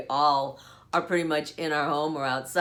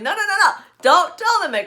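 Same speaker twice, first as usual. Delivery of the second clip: mock pleading; 11 semitones higher, 8 dB louder, faster than usual. Begging daughter not to tell.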